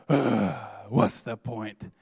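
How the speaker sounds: low, drawn-out groan of giving up; demotivated. Retold or imitated. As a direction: sigh it out low and slow, deflated. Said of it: "I lost all motivation".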